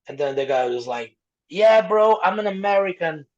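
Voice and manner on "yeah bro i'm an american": raised, loud-starting mock indignation; indignant refusal. Customer refuses pineapple on taco, acted indignant. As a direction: push back hard, higher than usual.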